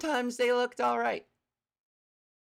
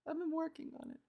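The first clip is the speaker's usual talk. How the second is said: higher and softer, a practised new voice; trained voice demo; 7 semitones higher, 9 dB quieter, much faster than usual. Shown as a demonstration. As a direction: show off the voice she has been training. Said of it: "I've been working on my voice".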